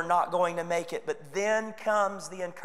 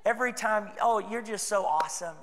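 mock gushing flattery; 4 dB quieter than usual. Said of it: "constantly cheering you on".

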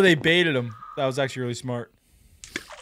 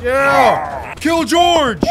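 excited; 6 semitones higher, much slower than usual. Real, not acted. Cheering on the villain.

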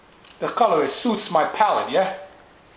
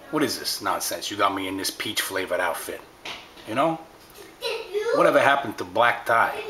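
offended dapper tough guy. Acted.

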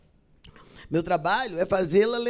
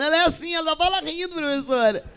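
classmates chiming in; 10 semitones higher than usual. Retold or imitated.

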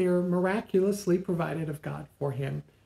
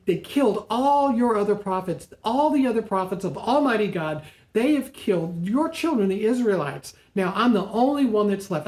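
higher, fast, exasperated complaint; venting frustration; 4 semitones higher than usual. Acted. Elijah venting his frustration to God, high and fast. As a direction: pour out the grievance. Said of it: "And Elijah vents to God".

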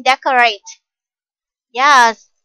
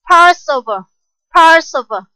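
model word; 2 semitones higher, 6 dB louder than usual. Shown as a demonstration. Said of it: "teacher models new word".

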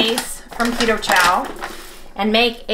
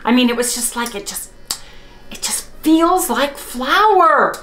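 higher-pitched real excitement, drawing out key words; excited; 5 semitones higher than usual. Real, not acted. Baker telling viewers the dough felt like drop biscuits, excited. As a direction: gush to everyone in a raised, excited pitch. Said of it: "I'm so excited, everybody".

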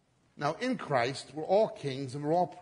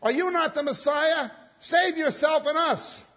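higher and louder, jeering shout; abusive taunt; 12 semitones higher, 8 dB louder than usual. Acted. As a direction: hurl it at him in contempt. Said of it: "hurling abuse at him".

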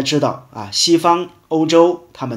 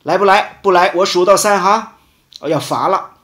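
acting a parent's countdown threat, raised voice; mock warning parent; 4 semitones higher, faster than usual. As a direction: lightly play a parent warning a child. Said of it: "很多的父母最喜欢说这句话". (模仿家长警告孩子的口气)

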